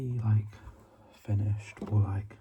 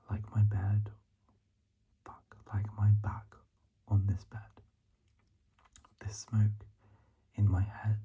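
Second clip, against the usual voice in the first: hushed, measured poetry recital; poem reading. Real, not acted. Student reading own poem to listeners, hushed recital. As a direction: whisper the verse, pausing after each phrase.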